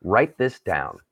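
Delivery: slow, deliberate emphasis; passionate. Real, not acted. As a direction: spell out each point slowly. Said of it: "I'm gonna get very passionate".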